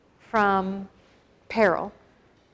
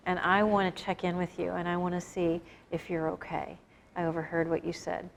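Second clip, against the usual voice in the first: soft, sincere words to a stranger, fading quieter; gentle check-in; 2 semitones lower, 5 dB quieter than usual. Retold or imitated. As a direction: ease in gently, like sitting beside someone upset. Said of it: "sit down next to Kevin and be like".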